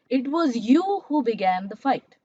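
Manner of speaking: YOU picked out with emphasis; stress on YOU. Shown as a demonstration. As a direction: lean on the word YOU mid-sentence. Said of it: "put special stress that it was you".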